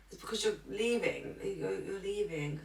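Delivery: soft, high, halting small voice; imitated sobbing child. Crying pupil to the leaving teacher, mimicked tearful little voice. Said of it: "like this, like, s-, sobbing".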